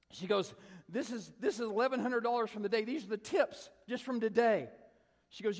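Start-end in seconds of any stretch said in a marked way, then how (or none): 0.9-4.7 high, loud amazement; imitated high-pitched astonished woman; amazed gushing. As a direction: show off an unbelievable find. Retold lady shows her tips.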